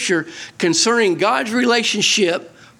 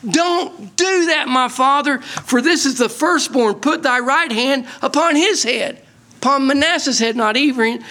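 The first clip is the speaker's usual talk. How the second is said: Joseph urging; 6 semitones higher than usual. Acted. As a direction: plead with the father, slowing the first words. Joseph urging his father.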